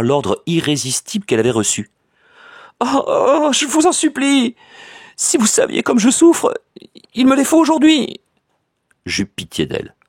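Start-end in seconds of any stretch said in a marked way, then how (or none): 2.8-8.2 much higher, tearful begging; weeping plea. A narrator's reading. Cousin, weeping, begs for the money today, much higher. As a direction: plead through tears. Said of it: "Elle pleurait et bégayait".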